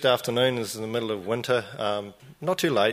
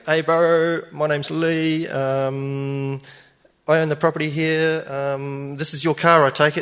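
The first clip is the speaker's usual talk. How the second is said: louder and higher, firm but friendly; firm greeting; 5 semitones higher, 6 dB louder, slower than usual. Retold or imitated. Owner greets the stranger in his car park, firm. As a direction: announce yourself with confidence. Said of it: "So I go over there".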